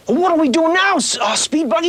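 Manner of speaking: high, loud eager cartoon hero; young leading man. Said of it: "young leading man on these things".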